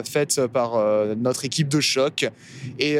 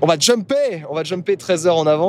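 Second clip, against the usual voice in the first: excited; 4 semitones higher, 5 dB louder than usual. Real, not acted. Excited announcing the time jump.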